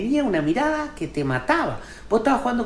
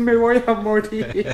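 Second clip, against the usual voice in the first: drawn-out, hammed-up moan; self-pitying whine; slower than usual. Man with a slight fever, self-pitying mock whine.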